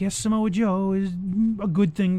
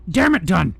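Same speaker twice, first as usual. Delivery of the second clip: louder barking boss; drill sergeant; 4 dB louder than usual. Retold or imitated. Boss yells at ignoring underling.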